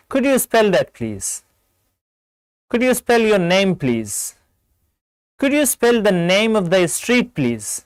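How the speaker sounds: measured textbook example, each phrase spelled out slowly; model phone questions. Shown as a demonstration. Teacher models questions for callers to ask, slow and polite.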